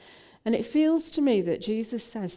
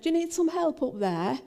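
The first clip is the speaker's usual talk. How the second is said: raised, higher-pitched call from below; 9 semitones higher than usual. Retold or imitated. Young lad offering help from below, calling up. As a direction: call it up to someone above you.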